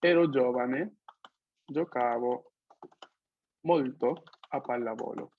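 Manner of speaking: slow, spaced-out dictation with pauses. Shown as a demonstration. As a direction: dictate it word by word for the student. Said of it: "te escribo esta frase".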